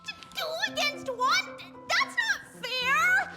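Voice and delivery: high-pitched stammered outcry; indignant protest. Acted. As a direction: protest the unfairness, voice shooting up. Protests being outnumbered in ambush.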